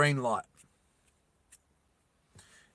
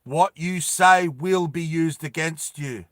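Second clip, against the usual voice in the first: robot yell; 4 dB louder, slower than usual. Acted. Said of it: "it kinda yells out".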